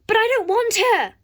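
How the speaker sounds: high, loud protest; bratty loud refusal; whiny shout. Acted. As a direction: wail it like a spoilt kid. Buyer protests loudly.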